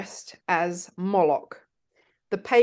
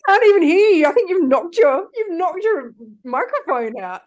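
raised voice; 9 semitones higher, 6 dB louder than usual. Real, not acted. S1 knocked her microphone out.

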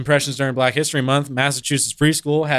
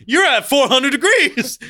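thermometer voice; 8 semitones higher than usual. Pretend. To friends, playing the thermometer, laughing. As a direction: lightly voice the thermometer reading its number.

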